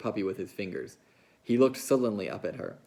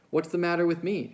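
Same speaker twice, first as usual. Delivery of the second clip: higher, louder angry outburst; angry cry; 8 semitones higher, 5 dB louder than usual. A narrator's reading. Curly's wife protesting to Lenny, angrily crying out. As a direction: cry out in hurt anger. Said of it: "she cried".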